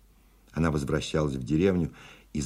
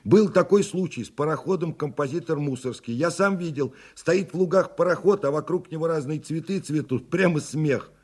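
put-on very high, eager young voice; young voice calling out; 13 semitones higher, 3 dB louder than usual. A narrator's reading. Young passenger vouches for the steamer tale, high excited calling. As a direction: pitch it right up like an excited youth. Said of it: "закричал из темноты молодой голос".

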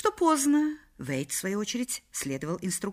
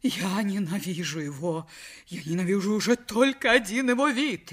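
hateful lament, building in pitch; wailing outburst; 2 semitones higher than usual. Acted. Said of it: "Миссис Вейт издала вопль". (с ненавистью, срываясь на вопль)

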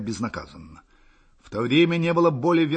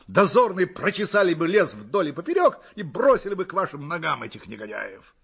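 high, loud and fervent, falling at the end; eager exclamation; 6 semitones higher, 4 dB louder than usual. A narrator's reading. Hussar vowing to his emperor to catch the scoundrels, exclaiming eagerly. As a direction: declare it with soldierly zeal. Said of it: "воскликнул я".

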